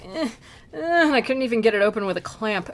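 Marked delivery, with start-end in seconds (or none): 0.1-1.1 straining grunts. Retold or imitated. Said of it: "and I was like".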